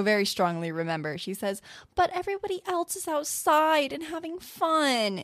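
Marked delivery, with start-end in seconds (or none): 1.9-5.2 put-on high, whiny child's complaint; whiny little girl. Imitating the girl whining to her mother about practice. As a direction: whine it like a kid stuck practicing. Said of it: "And she sounds so whiny".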